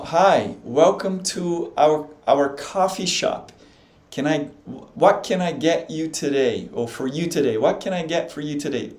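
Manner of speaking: slow, careful English for a learner; slow practice read. Shown as a demonstration. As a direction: spell it out slowly like a teacher. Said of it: "E aí ela pode praticar, ó".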